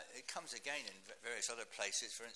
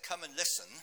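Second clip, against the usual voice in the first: calling out; 5 semitones higher, 10 dB louder than usual. Acted. Psalm call to listeners.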